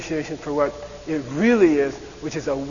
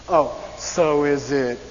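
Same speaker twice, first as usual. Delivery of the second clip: slow sarcastic fall; 2 semitones lower, much slower than usual. Shown as a demonstration. Teacher shows the sarcastic falling tune in English. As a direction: let oh drop, doubting. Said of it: "that's when you go down".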